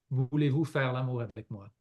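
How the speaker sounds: "Voulez-vous faire l'amour avec moi?" in native Quebec French; a native French speaker's easy "Voulez-vous faire l'amour avec moi?"; French phrase. Shown as a demonstration. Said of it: "say a phrase in French".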